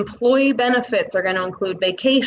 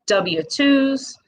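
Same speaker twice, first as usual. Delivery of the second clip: W twos said with a Midwest W, pitched a bit higher; Midwest accent; 5 semitones higher than usual. Real, not acted. Listing payroll papers for business owners, Midwest accent slips out. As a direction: let your Midwest accent slip out on W twos. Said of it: "W, that's my Midwest accent".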